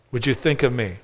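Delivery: a quiet, pleading echo of the line; soft echo. Retold or imitated. Preacher repeats thief's plea softer.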